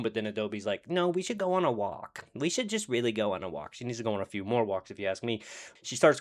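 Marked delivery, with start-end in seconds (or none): 0.9-3.7 insistent. Retold or imitated. Voicing Adobe insisting on a walk.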